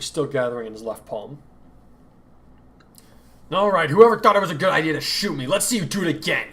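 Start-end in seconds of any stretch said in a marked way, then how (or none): 3.5-6.5 higher, louder taunt into the dark; wounded boy daring the hidden archer; shouting challenge. Acted. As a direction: dare the archer to try. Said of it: "he shouted into the night".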